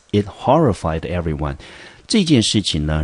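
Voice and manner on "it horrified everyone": It horrified everyone, HOR stressed. Shown as a demonstration. Teacher repeats phrase, horrified stressed. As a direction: lean on horrified.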